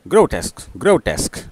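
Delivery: ग्रोटेस्क quickly, grow-tesk run together; quick demonstration of ग्रोटेस्क; said speedily. Shown as a demonstration. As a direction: repeat ग्रोटेस्क briskly as one joined word. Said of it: "और speedily सुनेंगे".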